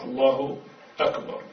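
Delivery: الله, slight break, then أكبر with its hamza; crisp glottal start on أكبر, short ending; carefully pronounced الله أكبر; correct form. Shown as a demonstration. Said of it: "الصحيح".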